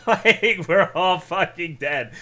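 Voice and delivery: loud, high laughing outburst. Real, not acted. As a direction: burst out laughing.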